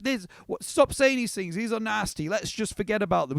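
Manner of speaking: a high, squeaky voice brushing it off; squeaky dismissive sheep. Retold or imitated. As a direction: play the flock, high-pitched and impatient. Sheep friends brushing off Lily.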